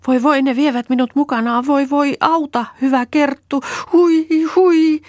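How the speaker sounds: high, loud frightened wailing; terrified high wail, pleading; panicked cry for help. Acted. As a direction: shriek for rescue as the water takes her. Reeta swept away, crying for help.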